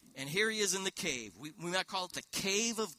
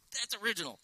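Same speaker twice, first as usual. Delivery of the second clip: laughing; 6 semitones higher, much faster than usual. Real, not acted. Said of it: "I'm so excited".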